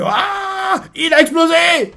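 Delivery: high, loud cry of alarm; shocked shout. Retold or imitated. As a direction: yell it out in shock. Shock as robot moves. (cri de surprise, aigu et fort)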